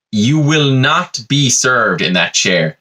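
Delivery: slow, deliberate "you will not be served"; a waiter coldly refusing a rude customer, slowly; firm refusal. Retold or imitated. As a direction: lay down the law word by word.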